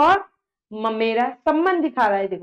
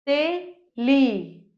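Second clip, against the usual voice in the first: drawn out slowly; much slower than usual. Shown as a demonstration. Teacher dictating words to class.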